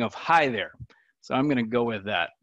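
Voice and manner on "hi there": Great Lakes greeting. Shown as a demonstration. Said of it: "standard Great Lakes area friendly mitten state greeting".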